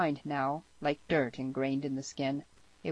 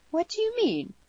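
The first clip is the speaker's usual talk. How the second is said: put-on very high girlish cry; high, startled girl's question; cried out; 5 dB louder than usual. A narrator's reading. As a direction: cry it out in alarm, pitch way up. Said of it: "She cried it out".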